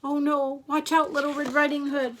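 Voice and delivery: high, mock-panicked storyteller; alarmed warning. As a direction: warn the heroine anxiously. Storyteller warns the girl.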